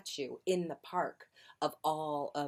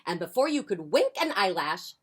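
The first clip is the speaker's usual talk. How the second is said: lively picture-book reading; expressive storytime voice; story narration; 5 semitones higher, 9 dB louder than usual. A narrator's reading. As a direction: read it aloud to young children. Reads picture book to children.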